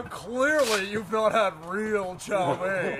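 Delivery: slow, condescending quote; snobby. Retold or imitated. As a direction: drag it out like a snob. Mocking snobby commenter.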